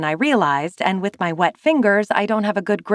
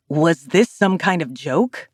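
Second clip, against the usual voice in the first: low fury; 2 semitones lower than usual. Acted. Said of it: "low burn of fury in his tone".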